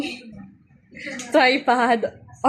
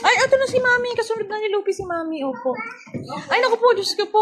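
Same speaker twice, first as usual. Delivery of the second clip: excited; 6 semitones higher, faster than usual. Real, not acted. Excited arrival greeting.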